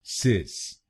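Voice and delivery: सिस said "sis" with a short i; सिस spoken on its own, "sis"; syllable demo. Shown as a demonstration. A teacher modelling the last syllable सिस as "sis". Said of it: "हम बोलेंगे सिस".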